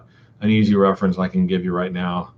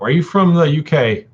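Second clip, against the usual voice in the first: British-tinged question, pitched up; almost-British lilt, higher; slight slip into a British accent; 7 semitones higher, 3 dB louder than usual. Shown as a demonstration. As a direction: let a hint of British accent creep in. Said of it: "Almost said that with an accent".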